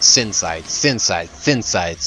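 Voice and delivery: the name rattled off three times in a row; tongue-twister repetition. Shown as a demonstration. Player testing a hard name three times, careful repetition. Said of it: "Try saying that three times fast".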